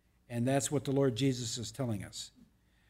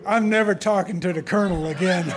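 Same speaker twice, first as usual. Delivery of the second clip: laughing through the words, louder; 7 semitones higher, 6 dB louder than usual. Real, not acted. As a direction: giggle out the joke at your own expense. Joking after Army gaffe.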